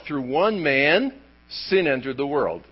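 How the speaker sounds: "one" drawn out slowly before "man"; slow down and lean on "one"; stress on one. Shown as a demonstration. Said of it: "Emphasis on one".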